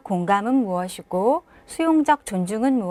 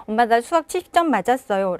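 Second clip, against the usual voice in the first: quick, downcast report of the score; dejected child; faster than usual. Shown as a demonstration. Child reports the math score to mom, downcast. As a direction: say it like a deflated kid. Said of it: "풀이 죽어 있는데".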